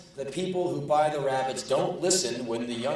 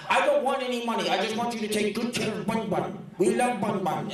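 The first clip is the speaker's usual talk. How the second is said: crazy woman voice; 8 semitones higher than usual. Retold or imitated. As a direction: mimic a dotty pet owner. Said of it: "this woman talked like this".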